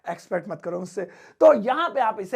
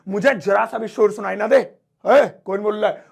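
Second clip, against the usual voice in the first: strict teacher; 6 dB louder than usual. Retold or imitated. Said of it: "next वाला है".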